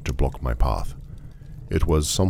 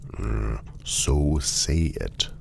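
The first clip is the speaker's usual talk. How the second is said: dry prompting; much slower than usual. Acted. Traveller prompting a stubborn automaton, slow and dry. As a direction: draw the words out with strained patience.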